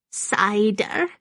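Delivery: high, rising, hopeful question; delighted old woman. A narrator's reading. Maggie is offered cider, delighted high question. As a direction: perk up with a high questioning lilt. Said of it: "her round face now a wreath of smiles".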